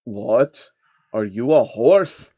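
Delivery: a hint of a sly old man, confused; slow and baffled; lightly voiced old schemer. Soros voiced in the story.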